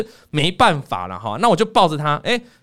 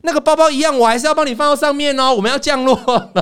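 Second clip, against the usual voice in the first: imitating the flight attendant; 9 semitones higher than usual. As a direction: play the attendant gently insisting. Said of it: "又瞄到". (高声模仿空姐客气地提醒)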